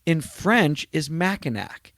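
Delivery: high, slow fake dawning; mock realization. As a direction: ham up a sarcastic aha, drawn out. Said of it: "And I go".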